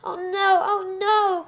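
loud high frightened oh no repeated; panic, crying it out twice; cried out. Acted. Arietti seeing the giant of the forest, frightened loud cry. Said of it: "cried Arietti".

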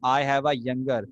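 slow, word by word, each word laid out clearly for students; dictating slowly; slow dictation. Shown as a demonstration. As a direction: dictate it slowly so the class can write. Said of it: "दोबारा सुन लो क्या बोल रहा हूँ".

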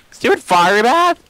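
drawn-out annoyed shout; frustrated yell. Real, not acted. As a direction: spit it out in exasperation. Attacked by fire bat.

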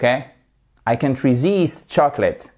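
resist lent, -SIST appuyé; accent sur la seconde syllabe. Shown as a demonstration. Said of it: "votre accentuation sur la seconde syllabe". (resist articulé lentement, accentué sur la fin)

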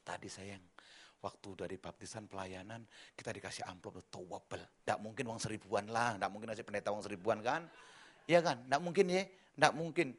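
a hint of an excited wife in the car; lightly voiced wife. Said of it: "Istri saya cerita di mobil".

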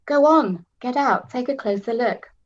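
loud eager urging; urging loudly. A narrator's reading. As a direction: push her out, excited and loud. Kitty urging Tara.

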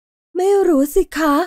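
put-on high, slow child's voice; a shy little girl shrugging it off; little girl unsure. A narrator's reading. Dinah answers Laurel's question in a high, slow child voice.

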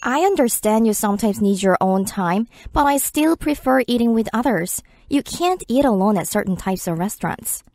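very slow, careful English read; slow listening-practice read; slow dialogue read. Shown as a demonstration. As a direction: read each word slowly for learners. Dialogue sentences read slowly.

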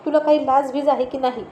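irritated, rising scold at a husband; angry scolding. Acted. Wife scolding husband who walked into the bathroom, irritated. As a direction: scold him sharply for barging in. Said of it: "चिडून म्हणाली".

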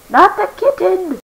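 high despairing wail; anguished cry. Acted.

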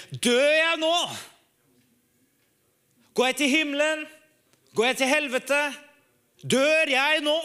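redd, høy stemme i panikk; retold panic. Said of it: "jeg blir fullstendig redd for døden".

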